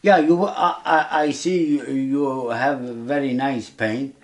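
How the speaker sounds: usual speaking voice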